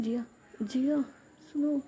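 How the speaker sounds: anxious pleading call for her friend; scared call. Acted. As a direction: call out for help, nervous and rising. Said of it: "Ruhi है ना थोड़ा सा डर जाती है".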